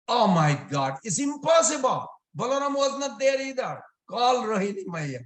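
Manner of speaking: high-pitched, incredulous outburst; indignant disbelief. Acted. Mother learns the brother was named, indignant disbelief. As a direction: protest as an outraged mother, pitch leaping up. Mother cannot believe the accusation.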